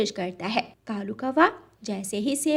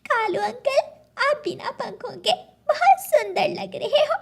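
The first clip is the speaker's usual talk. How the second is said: higher, laughing mock compliment; teasing giggle; 12 semitones higher than usual. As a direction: tease him through giggles. Kids tease featherless crow.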